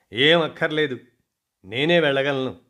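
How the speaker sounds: a touch of haughty confidence; proudly. Acted. Daughter brushing off her aunt, mildly proud. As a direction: say it with your chin up, lightly. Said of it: "ఠీవీగా చెప్పింది".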